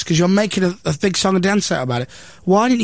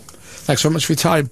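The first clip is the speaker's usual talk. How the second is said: mock man in the street. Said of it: "what do you think of Norwich".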